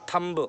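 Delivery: थंब with an audible final b; wrong pronunciation. Shown as a demonstration. Teacher warning against the error, b pronounced. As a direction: release a "buh" at the end of थंब. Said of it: "ब नहीं निकलेगा".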